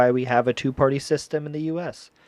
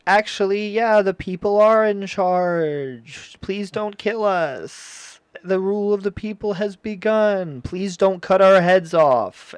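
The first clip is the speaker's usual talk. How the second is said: pleading king and queen; 5 semitones higher than usual. Retold or imitated. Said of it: "the king and queen were like".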